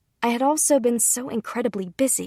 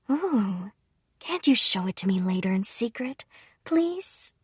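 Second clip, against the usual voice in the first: wheedling mother. Acted. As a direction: beg like a child for a peek. Mother begging to see it early.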